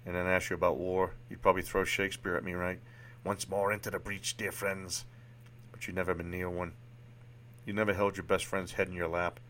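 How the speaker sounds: lightly attempted Boston accent; amateur Boston accent, even-pitched; Sean, Boston accent. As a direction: play a frank psychiatrist with a rough Boston accent. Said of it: "Forgive my horrible Boston accent here".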